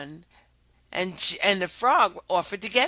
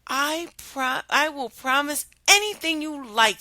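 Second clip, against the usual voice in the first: high eager princess; high pleading princess voice; 6 semitones higher, 4 dB louder than usual. Acted. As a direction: rush to promise as the princess.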